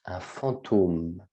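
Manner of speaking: "fantôme" said slowly, the O held long. Shown as a demonstration. Teacher drawing out the long O in "fantôme". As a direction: hold the O in "fantôme". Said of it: "c'est un long O".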